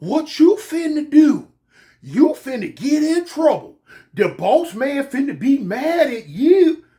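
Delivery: slow, drawn-out warning with a laugh; worried inmate. Retold or imitated. Fellow inmate warning him the boss will be mad, slow and uneasy. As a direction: play a nervous fellow inmate.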